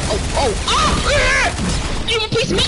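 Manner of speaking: loud swaggering taunt; belligerent drunk. Acted. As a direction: taunt them like a bar brawler. Big Papa trash talk.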